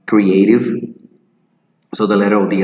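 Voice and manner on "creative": creative with the E said as E, kri-ay-tiv; correct creative. Shown as a demonstration. Teacher models the correct creative. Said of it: "So the letter E sounds like an E".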